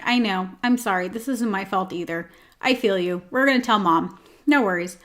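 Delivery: low-key, even reassurance to a cat; matter-of-fact soothing. Shown as a demonstration. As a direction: commiserate plainly, no drama. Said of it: "It's that very matter-of-fact energy".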